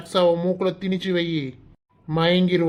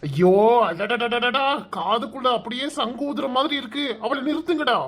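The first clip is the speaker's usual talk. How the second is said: pained wail; 6 semitones higher than usual. Acted. Ears hurt from her wailing.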